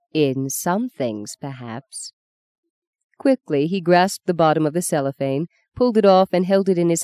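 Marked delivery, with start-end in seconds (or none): 0.1-2.1 smiling. Acted.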